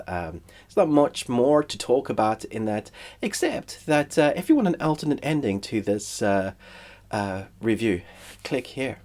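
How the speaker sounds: blocked nose from a cold; talking through a stuffy nose; nasal congestion voice. Real, not acted. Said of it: "sorry about my, uh, nasal congestion voice".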